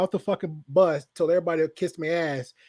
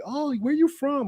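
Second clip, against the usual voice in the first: Southern drawl; 9 semitones higher, slower than usual. Retold or imitated. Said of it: "a Southern draw".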